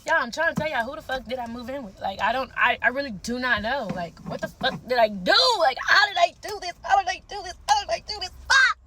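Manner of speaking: high, loud frantic ranting; exasperated disbelief. Real, not acted. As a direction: rant at the audience in total disbelief. Exasperated rant to viewers.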